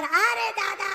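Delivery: high, long drawn-out comic wail; mock cry of pain. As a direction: cry out in hammed-up agony, stretching the last word. Stone cries out when struck. (दर्द से कराहने का नाटक, लंबी ऊँची पुकार)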